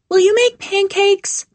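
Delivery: put-on high, loud child's stage whisper; a little girl whispering loudly; toddler whisper. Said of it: "Pauline whispers loudly".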